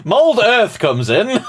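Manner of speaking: high, loud, drawn-out imitation through laughter; laughing mock quote. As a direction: imitate grandly while cracking up.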